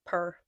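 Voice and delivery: "per" rhyming with "fur"; own accent pronunciation. Shown as a demonstration. Giving own way of saying poor, "per". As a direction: say poor as a short "purr". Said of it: "We say per".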